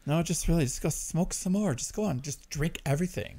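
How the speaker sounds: mock-encouraging inner voice; self-loathing voice. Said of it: "best self-loathing voice on earth".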